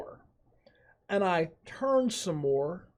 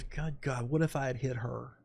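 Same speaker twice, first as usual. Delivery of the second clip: hushed horror; 3 semitones lower, 6 dB quieter than usual. Retold or imitated. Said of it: "all I could think was".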